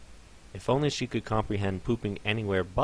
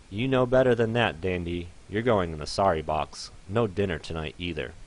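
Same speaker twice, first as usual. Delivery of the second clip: louder owner telling off a pet; stern scolding; 4 dB louder than usual. Acted. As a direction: scold the pony firmly.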